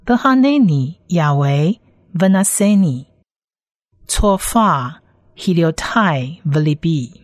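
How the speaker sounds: measured Hebrew phrase by phrase; Hebrew read-aloud. Shown as a demonstration. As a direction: read the Hebrew clearly for learners. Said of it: "先来把整句的原文念几次". (清晰示范朗读希伯来文)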